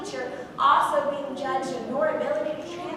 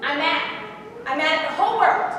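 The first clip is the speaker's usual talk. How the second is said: angry declaration; 6 dB louder than usual. Acted. Sally declares her anger.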